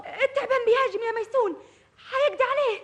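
high, loud frightened shout; panicked cry. Acted. Sister crying to Maysoon that the snake attacks, panicked. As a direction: cry out in terror.

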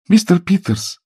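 high, urgent cry; Billy exclaims to Mr Peters, alarmed; exclaiming. A narrator's reading. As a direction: call his name in alarm. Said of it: "воскликнула она".

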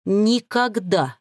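slow, drawn-out defiant exhale; breathed never. Acted. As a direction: breathe it right into his face. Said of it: "выдохнула". (медленно выдохнуть с вызовом)

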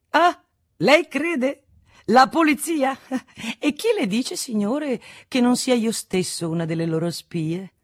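high, theatrical disbelief, starting loud; high-pitched, taunting pretend alarm; mocking incredulity. A narrator's reading. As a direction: tease a frightened man with exaggerated astonishment. Young man mocks the frightened Martinon.

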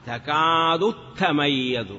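slow recitation with a doubled t opening تميز; تميز begun on a geminated t; assimilated recitation. Shown as a demonstration. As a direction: stretch تكاد and merge into a held t on تميز. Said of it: "بل أدغمت الأولى إلى الثانية".

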